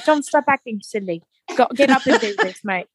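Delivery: put-on British accent, mate; imitated British banter. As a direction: answer in a playful mock British accent. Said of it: "he loves a good British accent".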